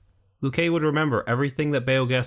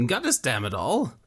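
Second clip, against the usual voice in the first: anguished cry; 3 semitones higher than usual. A narrator's reading. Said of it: "Luque cried".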